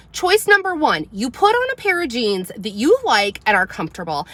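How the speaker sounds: firm, loud mom laying down two choices; stern ultimatum. Retold or imitated. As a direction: spell out the options like a final warning. Giving ultimatum to daughter.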